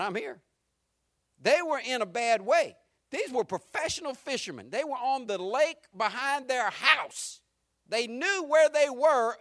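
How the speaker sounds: rising pulpit intensity; preaching with force. Acted. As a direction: drive the storm home to the congregation. Preacher building up again.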